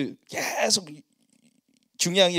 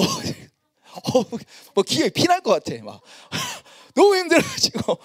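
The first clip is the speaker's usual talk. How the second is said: laughing; 10 semitones higher, 4 dB louder, slower than usual. Real, not acted. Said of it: "laughing exhausted".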